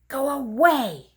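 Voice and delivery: slow, high cry. Acted. Scene: Froggy cries at Frogalina to go away, slow and high. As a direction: whine it at her. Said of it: "cried Froggy".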